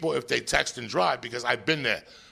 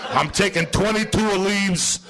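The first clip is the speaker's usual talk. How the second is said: defiant hyped-up guy; 4 semitones higher than usual. Retold or imitated. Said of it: "He said".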